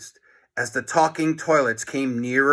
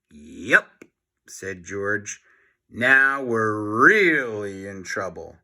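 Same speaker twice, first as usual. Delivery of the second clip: glum; 5 semitones lower, slower than usual. Acted. Boy gloomy.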